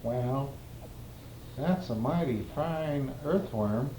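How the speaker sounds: put-on slow New England accent; slow, drawn-out New England accent. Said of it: "in his New England accent".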